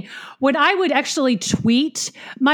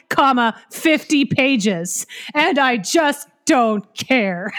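drawn-out slow quoting of the review; slow mock reading; slower than usual. Quoting the review slowly to tease the reviewer. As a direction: drag each word of the review. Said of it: "You never would have read fifty pages".

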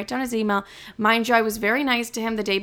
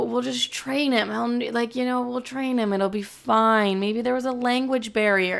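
put-on dismissive old boss; 3 semitones higher than usual. Derek voiced dismissing harassment.

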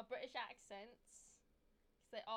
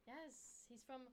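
mock British, drifting Australian; punchy, hammy British accent that misses; attempted British accent; 3 semitones higher, slower than usual. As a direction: put on a wobbly British accent. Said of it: "that was more Australian".

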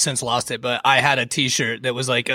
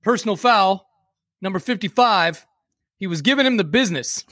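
referee announcement; 5 semitones higher than usual. Retold or imitated. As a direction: announce the penalty to the stadium. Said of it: "head referee goes up and he's like".

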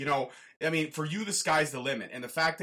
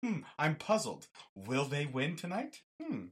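slow, hushed mock puzzlement; puzzled correspondent; 6 dB quieter than usual. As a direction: muse aloud like a baffled reporter. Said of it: "do the Walt Disney slow nod".

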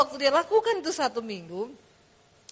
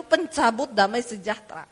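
ordinary delivery

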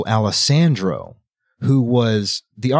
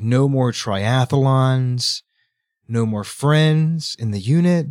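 slow and deliberate; slower than usual. Retold or imitated. The Archon listing the losses.

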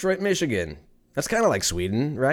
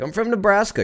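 much higher, hammed-up voice for the YouTube chef; mock German chef voice; 10 semitones higher, faster than usual. Mocking the YouTube chef he just found, in a high put-on voice. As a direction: squeak it out like a clueless cook. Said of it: "He's like".

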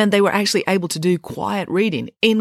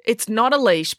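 lightly winded, higher protest; panting; 6 semitones higher than usual. A narrator's reading. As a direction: protest while out of breath. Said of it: "panted Tom".

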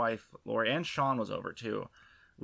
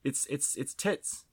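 mock Aussie accent; 2 semitones higher than usual. Host building up a fake Aussie slang line, mock Australian accent. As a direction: chase the phrase in a jokey Aussie accent. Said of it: "That's a really convincing accent".

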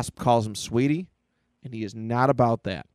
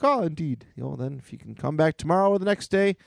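lightly voiced butler, higher pitch; dismissive butler; 4 semitones higher than usual. Butler puts the boy off, lightly voiced politeness. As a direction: politely put him off.

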